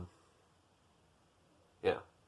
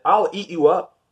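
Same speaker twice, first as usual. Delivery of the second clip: mock threat; 7 semitones higher, 5 dB louder than usual. Max threatening his mother.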